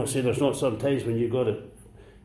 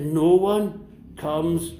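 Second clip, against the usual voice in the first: mock wrong version. Shown as a demonstration. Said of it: "No, I didn't say that".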